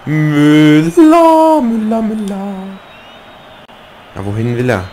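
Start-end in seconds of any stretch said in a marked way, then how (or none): 0.1-2.5 high, loud urgent calling of Müller; panicking gamer. Real, not acted. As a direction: call out the name, frantic. Gamer urging his player forward.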